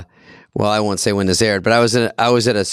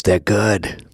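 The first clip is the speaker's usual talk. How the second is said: lightly imitated comic, "smart" as "smaht"; John Lovitz; 2 semitones lower than usual. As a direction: vouch for them in character, R's dropped. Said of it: "And he goes".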